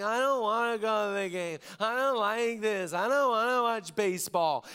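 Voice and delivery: a mild put-on grumpy five-year-old; whining kid. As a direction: whine like a cranky child. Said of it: "He's kinda whining".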